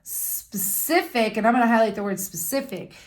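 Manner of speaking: teacher reading from the book; reading the rule aloud. Shown as a demonstration. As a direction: read the rule to young students. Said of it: "And it says".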